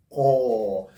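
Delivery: "call" for corps, said as open "koh"; silent P and S. Shown as a demonstration. Teacher sums up the rule, final P and S silent in "call". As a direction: end "call" on the vowel, no consonant. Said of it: "We pronounce it as call".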